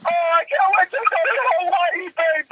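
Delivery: high, screaming commentator impression; hammed-up excitable sportscaster; Dick Vitale. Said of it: "screaming to his microphone".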